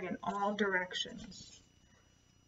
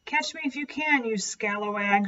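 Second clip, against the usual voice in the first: taunting. Acted. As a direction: tease the crow to lure him off. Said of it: "she taunted".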